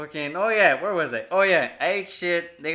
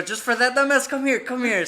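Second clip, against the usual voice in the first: higher, mock-angry parent ordering a kid over; imitated parental scolding; 7 semitones higher, 4 dB louder than usual. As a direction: scold like a fed-up parent retold for laughs. Retold parents scolding him.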